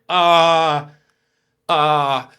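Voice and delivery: loud, long dread-filled "uh"; stunned loud moan; alarmed drawn-out groan. Retold or imitated. Dread at seeing wife's number.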